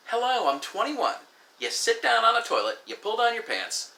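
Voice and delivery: high-pitched mimicry of an exasperated young woman; mock know-it-all. Young woman schooling him on the toilet, mock exasperated. Retold virgin lecturing him on anatomy.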